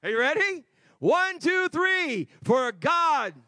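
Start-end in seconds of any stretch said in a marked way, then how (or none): 2.4-3.3 with enthusiasm. Shown as a demonstration. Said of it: "Can you say it with a little enthusiasm".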